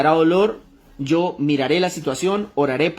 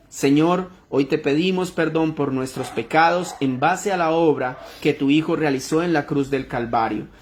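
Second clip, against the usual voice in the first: prayer. Real, not acted. Preacher closing the sermon in prayer to God for the congregation, earnest prayer. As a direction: address God evenly, phrase after phrase.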